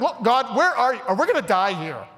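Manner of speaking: whiny pleading cry to God; high, pleading mock complaint; grumbling Israelites. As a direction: complain like a scared wanderer. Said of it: "They're like".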